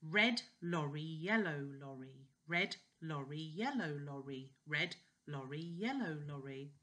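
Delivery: careful "red lorry, yellow lorry"; tongue twister. Shown as a demonstration. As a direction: articulate each "lorry" clearly. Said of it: "let's do one".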